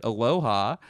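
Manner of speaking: mock Hawaiian greeting; Hawaiian accent. Demonstrating Hawaiian, brief greeting in accent. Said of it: "Hawaiian accent".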